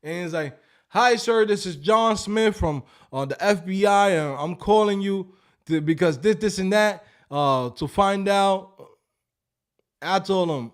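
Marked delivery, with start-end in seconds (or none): 0.9-8.9 fake American accent. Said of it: "make-believe American accent".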